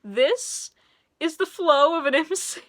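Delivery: put-on high, sing-song voice for small children; kids' show host. To viewers, she mimics a kids' show host, sing-song and high. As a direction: talk like a preschool TV host. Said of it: "the Miss Rachel of music channels".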